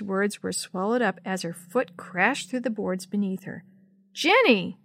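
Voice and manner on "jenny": a sharp, louder cry of her name; yell. Acted. Sammy seeing Jenny fall through the boards, alarmed yell. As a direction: call out in alarm. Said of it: "Sammy yelled".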